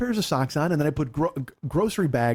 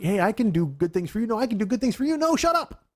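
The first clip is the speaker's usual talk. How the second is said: polite offers climbing to a much higher mock snap; mock bickering; 6 semitones higher than usual. Husband voicing the couple's kindness war, rising to mock snap. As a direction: escalate from sweet to snappish.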